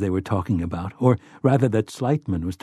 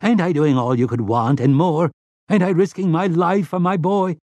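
higher wounded whine; whiny complaint; 6 semitones higher than usual. A narrator's reading. Slightman pleading with the robot, whiny. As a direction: plead your case, hurt. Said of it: "sounded injured, almost whiny".

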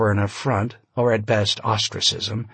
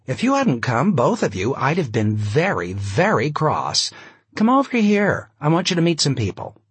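gushing hostess; 3 semitones higher than usual. Acted. Hostess gushing, leading guests.

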